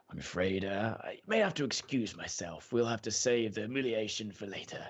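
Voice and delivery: mildly apologetic host excusing himself; hesitant, courteous apology. Acted. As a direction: politely beg off with a touch of regret. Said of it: "looks at you apologetically and goes".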